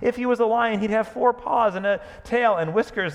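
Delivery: laughing, high and loud, mocking. Bree mocking the idea of a real lion, laughing. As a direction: chuckle through the scoffing. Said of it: "Bree began to laugh".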